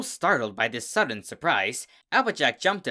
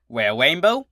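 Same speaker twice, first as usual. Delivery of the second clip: louder, higher, confident answer; louder confident reply about finding out; 6 semitones higher, 9 dB louder than usual. Acted. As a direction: sure of herself. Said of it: "Applejack confidently answered".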